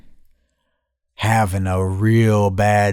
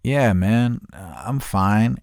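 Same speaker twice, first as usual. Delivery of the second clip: feigned calm; 5 dB quieter, slower than usual. Retold or imitated. Telling his friend he's fine, understated cover-up. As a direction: play it down, easing off at the end. Outward calm hiding inner panic.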